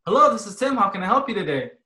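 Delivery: friendly, upbeat customer greeting; smiling phone greeting. Shown as a demonstration. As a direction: answer the phone smiling, enthusiastic. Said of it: "So I want you to smile".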